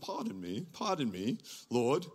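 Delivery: soft, hesitant asking pardon with a lifting end; timid polite Gideon. Retold or imitated. Gideon politely questioning the angel, soft and timid. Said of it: "so polite".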